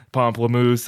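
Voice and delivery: "pamplemousse" said the French way, pahm-pluh-MOOSS with a nasal first vowel. Shown as a demonstration. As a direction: relish the French "pamplemousse" like a fun word. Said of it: "That's a fun word to say".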